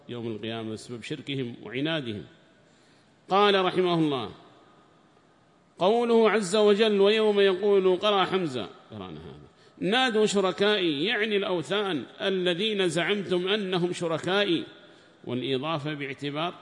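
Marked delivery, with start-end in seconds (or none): 3.3-8.7 raised, higher recitation voice for the quoted book; formal text reading. Acted. Sheikh reading the tafsir book aloud to students, raised formal reading voice. 9.8-14.7 raised, higher recitation voice for the quoted book; formal text reading. Acted. Sheikh reading the tafsir book aloud to students, raised formal reading voice.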